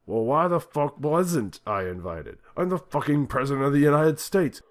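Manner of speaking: furious. A narrator's reading. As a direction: rage at being left out. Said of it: "this angry".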